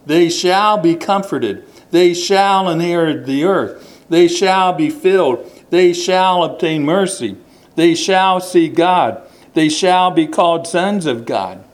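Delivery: They shall each time, leaning on future; stress on shall. Shown as a demonstration. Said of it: "talking about something in the future".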